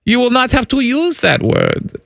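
put-on German accent.

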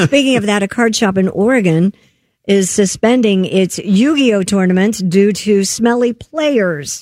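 radio news story delivery; news read. Real, not acted. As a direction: read it out like a newscaster.

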